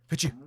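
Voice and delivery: loud sharp sneeze; harsh sneeze. Real, not acted. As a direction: sneeze that hurts the ear. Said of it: "that was supposed to be a lot less painful for you".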